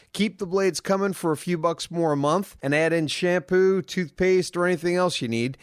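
upbeat sponsor read in a steady pitch voice. Acted. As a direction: sell the product like a podcast sponsor spot. Reads sponsor ad.

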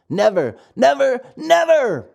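put-on a boy's firm triple never, rising on the last; insist, never and never and never; emphatic promise. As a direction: friend reassures the puppet, firm and rising. Lampwick promises no school.

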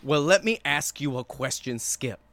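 mock debate-host opener; lightly done challenge to Skip; a hint of TV shouter; Stephen A impression. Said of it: "I was gonna go Stephen A on this".

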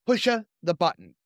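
condemned man reading. Acted. Condemned man's last words read with mild defiance. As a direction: give the last line plainly with mild defiance. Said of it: "I'm just gonna read it as it was written".

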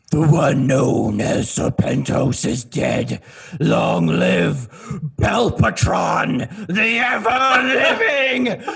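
slow, grandiose announcement building to a high shout; villain's proclamation. Acted. Belpatron declaring himself ruler, drawn-out villainous shout. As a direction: proclaim it slowly, stretching the name, climbing to a yell. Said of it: "and I go".

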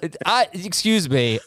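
put-on half-hearted indignant British accent. Host struggling to act indignant, bad British accent. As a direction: try and fail at British indignation. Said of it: "trying to get indignant in a British accent".

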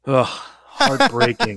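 high, slow anguished groan; mock anguish. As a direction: wail it like a lost bet. Groaning over a lost bet.

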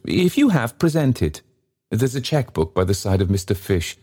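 high, haughty, self-important lecture; pompous gentleman. Acted. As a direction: speak as a grand MP. Sir Joseph lecturing porter.

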